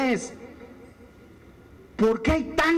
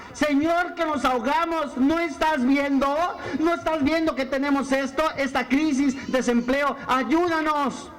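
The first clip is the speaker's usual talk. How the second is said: súplica angustiada; 4 semitones higher than usual. Retold or imitated. Discípulos gritando en la barca.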